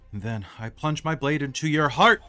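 theatrical rehearsal. Acted. Actor rehearsing lines while pacing.

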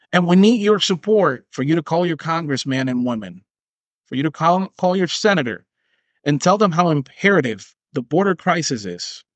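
solemn politician's plea, lightly done; hint of a pompous speech; mock campaign appeal. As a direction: urge voters like a campaign ad.

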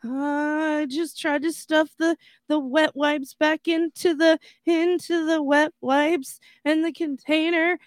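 high, whiny imitation of an upset kid; exaggerated tearful kid voice; mock whimpering. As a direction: whimper it out as the hurt little brother. Retelling his brother's distressed confession.

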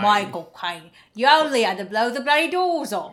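loose, lazy Cockney-ish Michael Caine impression; marbles in mouth. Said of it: "It's like he has marbles in his mouth when he's".

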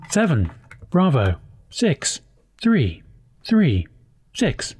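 slow, flat numbers station readout; numbers station monotone. Pretend. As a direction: read the codes slowly and flatly. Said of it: "turning this podcast into a numbers station".

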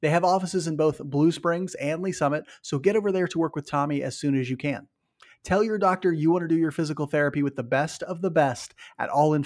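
upbeat sponsor read. Acted. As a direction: pitch it like a radio spot. Reads sponsor ad.

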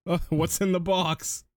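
a hint of mimicking the film line; mock Mills. Podcaster quoting Mills at the box, mildly mock-pleading.

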